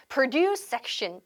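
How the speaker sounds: PRODUCE stressed on the second syllable, pro-DUCE; verb-style stress. Shown as a demonstration. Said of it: "이렇게 발음하지 않으셨어요".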